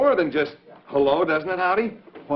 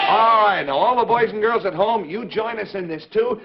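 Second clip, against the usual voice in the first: lightly raised puppet voice; high puppet voice; 4 semitones higher than usual. Acted. Puppet cues the kids, in a high puppet voice. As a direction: coax the kids to shout back. Puppet invites home viewers.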